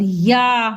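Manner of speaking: "या" with a long, full आ; drawn-out vowel. Shown as a demonstration. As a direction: stretch the आ in "या" all the way. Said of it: "या को बोल रहे हैं खींच के". ("या" को खींच के पूरा बोलें)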